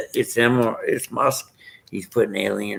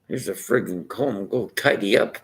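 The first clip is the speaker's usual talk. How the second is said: stingy Scotsman. Retold or imitated. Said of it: "The Scotsman".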